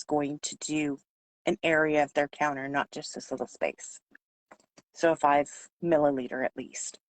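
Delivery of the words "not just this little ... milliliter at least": hoarse, fading voice; losing voice. Real, not acted. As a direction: voice giving out, raspy. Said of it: "I'm losing my voice today".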